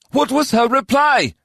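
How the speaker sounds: high sharp demand; barked. A narrator's reading. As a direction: bark the question. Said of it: "Sajay barked".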